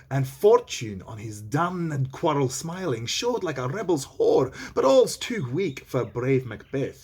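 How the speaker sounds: a touch of stage grandeur, unhurried; lightly dramatic verse reading. Acted. Reads the verse aloud.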